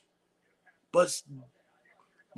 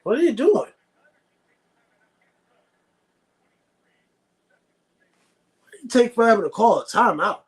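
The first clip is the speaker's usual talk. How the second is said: exasperated yell; 4 semitones higher, 3 dB louder, faster than usual. Real, not acted. Yelling at the team on TV.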